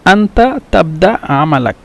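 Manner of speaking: slow, careful Arabic phrase; slow model phrase. Shown as a demonstration. Teacher modelling standard Arabic slowly. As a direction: say each word clearly for the learners. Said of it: "আরবি শুদ্ধ ভাষা হলো".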